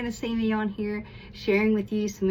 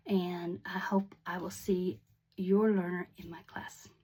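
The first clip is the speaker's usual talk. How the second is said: whispered sign-off; 3 semitones lower, 5 dB quieter than usual. Real, not acted. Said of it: "whispered sign-off".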